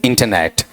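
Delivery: इंटरनेट with schwa middle and short e; correct pronunciation. Shown as a demonstration. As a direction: finish इंटरनेट on a short "net", falling. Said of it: "बताओ क्या बना".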